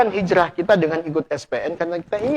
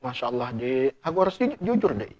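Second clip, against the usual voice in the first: soft reluctant confession; 5 semitones lower, 8 dB quieter than usual. Retold or imitated. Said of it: "kalau antum terpaksa mengatakan".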